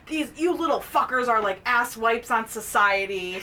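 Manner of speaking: mildly acted telling-off, laughing; half-hearted principal's rant; retold yelling principal. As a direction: scold the kids with amused mock anger. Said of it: "yells at these kids".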